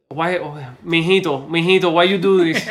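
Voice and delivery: lightly imitated Spanish-accented mother; mother's Spanish accent. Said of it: "I don't know why I'm doing the accent".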